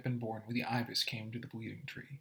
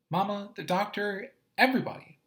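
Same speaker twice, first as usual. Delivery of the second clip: put-on high little boy, rising louder at the end; Doodle's voice; 8 semitones higher, 4 dB louder than usual. Doodle insisting to his brother, high and building louder. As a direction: list them off, pleading, building up.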